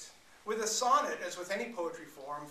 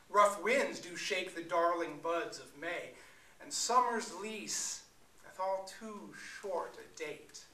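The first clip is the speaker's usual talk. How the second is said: slow, measured sonnet reading; dramatic poetry reading; poem recital; slower than usual. Shown as a demonstration. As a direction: recite it with weight and lilt. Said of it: "which goes something like this".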